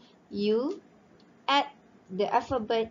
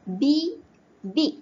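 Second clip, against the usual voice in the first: loud example word; 5 semitones higher, 5 dB louder than usual. Shown as a demonstration. Teacher calling out the example word to students, loud and raised. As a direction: call out the word big, louder and higher. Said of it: "teacher presents example word".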